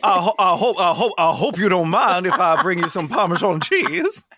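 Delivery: a light put-on Italian accent. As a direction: offer the cheese in a hammed-up Italian accent. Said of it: "flawless Italian accents".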